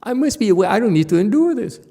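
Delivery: a teacher mimicking a pupil who wants an easy way; mock whining. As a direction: act out a student sulking about the effort. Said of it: "you whine".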